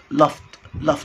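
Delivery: لفت ending in a sharp t; لفت: say the ending as a t sound. Shown as a demonstration. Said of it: "تبقى لفت".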